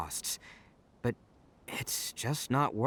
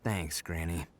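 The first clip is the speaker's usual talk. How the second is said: whispered; 10 semitones lower, 5 dB quieter, much slower than usual. Acted. Resigned admission to granny.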